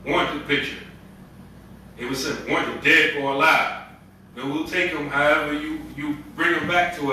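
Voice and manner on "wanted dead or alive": slow reading with "dead" standing out; emphasis on "dead". Shown as a demonstration. Preacher quoting an old Western poster, stressing "dead". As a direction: put the weight on "dead", slowly. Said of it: "Emphasis on dead".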